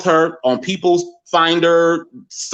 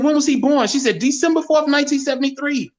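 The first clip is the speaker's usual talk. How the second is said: excited; 10 semitones higher than usual. Retold or imitated. Mother and daughter excited exchange.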